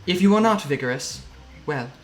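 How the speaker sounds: lightly voiced deliberate matriarch, pausing between phrases; a hint of a polite, ominous mother figure; Mum, formally cautioning. Game master plays Mum advising.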